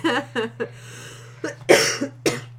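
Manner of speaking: laughing into a chesty cough; a rough cough through laughter. Real, not acted. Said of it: "Sorry, I'm coughing".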